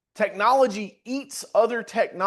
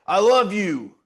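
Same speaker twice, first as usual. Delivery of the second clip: a hard, mean I love you, a touch louder; mean-faced I love you; 2 semitones higher, 5 dB louder, slower than usual. Retold or imitated. A spouse hearing a scowled I love you. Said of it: "look at her with a real mean face".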